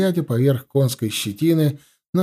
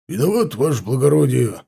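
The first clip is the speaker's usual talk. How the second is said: barked answer. A narrator's reading. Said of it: "рявкнул Силович".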